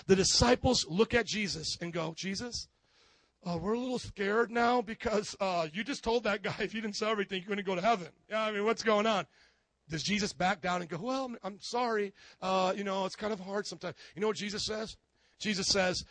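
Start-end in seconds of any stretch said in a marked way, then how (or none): 2.2-9.3 nervous disciples. Acted. Scared disciples voiced. 11.0-14.0 meek apology. Acted. Jesus backing down, imagined.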